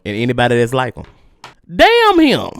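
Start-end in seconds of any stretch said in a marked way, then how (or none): 1.7-2.5 damn him, shouted high and loud; high furious damn him. Real, not acted. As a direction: curse him out at the top of the voice. Angry rant cursing him.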